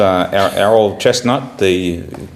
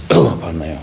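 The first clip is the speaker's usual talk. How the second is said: coughing after a sip; clearing the throat after water; choking on water; 2 semitones lower than usual. Real, not acted. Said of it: "water went down the wrong way".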